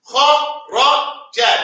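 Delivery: kharaja dragged out; slow try. Shown as a demonstration. Teacher fumbles the word before correcting himself. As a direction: pull kharaja out very slowly. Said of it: "no, kharaja".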